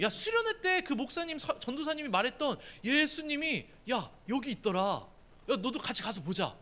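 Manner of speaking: rising, eager calls of "야" to a friend; a kid bursting to tell his friend; eager urging. Retold or imitated. Philip urging his friend Nathanael to come, excitedly.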